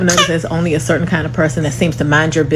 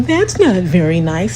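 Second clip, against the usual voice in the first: mocking prim tone. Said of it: "And now you're saying".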